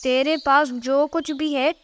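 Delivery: threatening tough-guy villain voice; menacing robber. Shown as a demonstration. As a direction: menace the victim like a filmi goon. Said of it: "ऐसे बोलो कि सामने वाले की pant गीली हो जाए".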